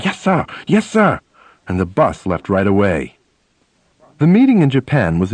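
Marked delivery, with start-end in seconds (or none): 0.0-1.2 flustered. Retold or imitated. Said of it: "scurry like mice, saying".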